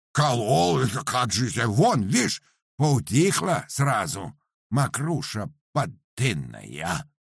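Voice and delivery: loud, high, outraged peasant; a peasant protesting he was cheated; indignant booming. Acted. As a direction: bellow it back in disbelief. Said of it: "загудел Парамон".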